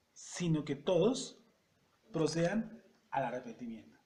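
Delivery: slow, deliberate verse reading, loud at the start; measured scripture reading, drawn-out words. Shown as a demonstration. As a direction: read it out slowly, phrase by phrase with pauses. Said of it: "lo voy a leer despacio".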